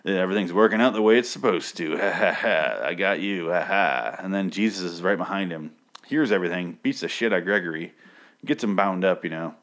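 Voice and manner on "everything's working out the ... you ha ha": a hint of a gloating villain with a mock laugh; half-hearted evil-mastermind gloat; lightly voiced Bond villain. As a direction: play a smug movie villain, barely put on. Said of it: "a Bond villain thing where he's like".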